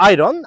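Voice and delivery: আয়রন said with a clear r, the way learners mispronounce it; common wrong pronunciation. Shown as a demonstration. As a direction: give the mistaken r-full reading. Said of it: "এই শব্দটি আমরা ভুল উচ্চারণ করে থাকি".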